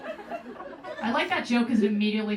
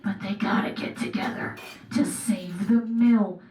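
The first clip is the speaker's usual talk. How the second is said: whispering; 3 semitones lower than usual. Pretend. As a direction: breathe it like a secret plot twist. Hushed trailer plot line.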